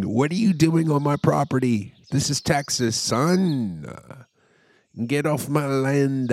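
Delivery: loud, high angry landowner yell; angry Texan. Retold or imitated. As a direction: shout him off your land.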